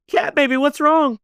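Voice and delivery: high-pitched, frantic worried man; alarmed husband. Retold or imitated. Kelly asks screaming Kat what's wrong, alarmed. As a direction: cry out in alarm to your sweetheart.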